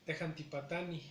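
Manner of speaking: "Tejantipatani" with a stretched I and a faint soft J; long I, soft J. Shown as a demonstration. Teacher repeating "Tejantipatani" with long I, soft J. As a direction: lengthen the "i" and barely breathe the "j" in "Tejantipatani". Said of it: "Va de nuevo".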